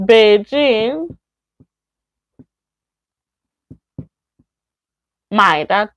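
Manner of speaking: word by word, long pauses between; slow model sentence. Shown as a demonstration. Teacher giving example two, slow and separated. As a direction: dictate it one word at a time. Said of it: "Number two, say".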